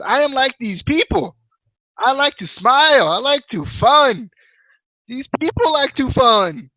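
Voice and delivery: high, drawn-out mock Indian accent; Mahabali Shera. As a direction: ham up a terrible Indian accent. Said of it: "quit with this terrible accent".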